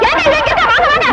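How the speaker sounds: high, loud call across the field; urgent high shout to bring people running. Acted. Calling others to the spot.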